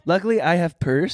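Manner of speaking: dropped article, clipped; broken English. Retold or imitated. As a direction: drop the a in a purse. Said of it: "I said a purse".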